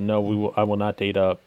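usual speaking voice

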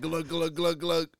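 slow, repeated glug noises; glug-glug sound effect; imitated glugging. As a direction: mimic gulping, one slow glug after another. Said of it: "it goes like".

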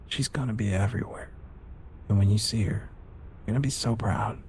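soft, eerie taunt trailing into a whisper; creepy taunt. Acted. Crazed captive taunts the father.

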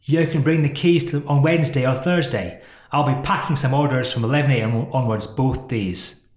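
a rubbish cockney boss voice; London accent. Retold or imitated. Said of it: "My London accent's rubbish".

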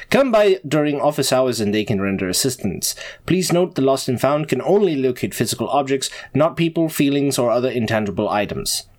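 formal school announcement voice; announcement read. Acted.

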